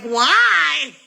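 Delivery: loud, high drawn-out cry; appalled disbelief. Retold or imitated. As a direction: wail it in mock horror. Retold disbelief at homeschooling mother.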